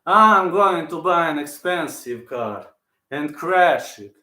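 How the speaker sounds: lightly voiced impression, words stretched and pushed out; Jiri impression. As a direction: say it slowly and firmly, in character. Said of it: "My favorite Jiri quote".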